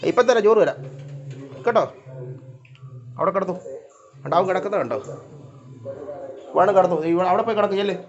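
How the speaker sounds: talking to pets. Real, not acted. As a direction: promise and shoo the cats in a high voice. Talking to her cats. (പൂച്ചയോട് കൊഞ്ചിക്കുന്ന ഉയർന്ന ശബ്ദം)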